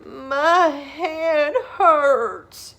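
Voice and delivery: very slow, high moaning whimper. Acted. Sarah moaning as she trudges to the kitchen. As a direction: drag it out in misery. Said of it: "she moaned".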